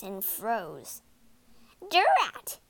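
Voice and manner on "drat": high, loud snarled curse. A narrator's reading. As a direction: snarl it in sudden fury. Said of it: "she snarled".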